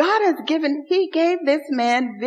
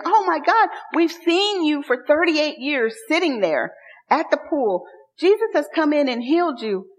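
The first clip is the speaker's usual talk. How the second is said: joyful; 4 semitones higher than usual. Retold or imitated. Joyful crowd voiced.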